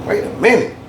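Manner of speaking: mock surprise; mock sudden realization. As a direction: act out the double take. Realizing the copy is a problem.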